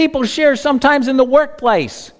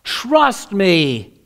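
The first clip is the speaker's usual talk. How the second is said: gentle God voice; 6 semitones lower, much slower than usual. Acted. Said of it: "And God says".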